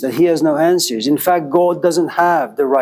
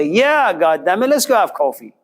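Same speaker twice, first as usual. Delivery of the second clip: mock excited; 3 semitones higher than usual. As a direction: jump at the offer, happily. Depressed teen suddenly happy.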